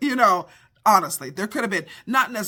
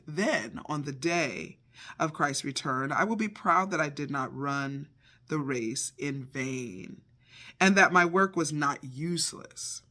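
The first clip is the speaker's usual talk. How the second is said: scripture reading; 2 semitones lower than usual. Real, not acted. Teacher reading scripture to her listeners, reverent reading. Reads Philippians aloud.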